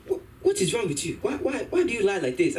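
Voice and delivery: mock exasperated mother; scolding mom.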